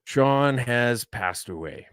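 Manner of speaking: slow, grave mock eulogy; deadpan a fake funeral announcement; mock solemn. Joking to the guest host, slow mock-solemn announcement.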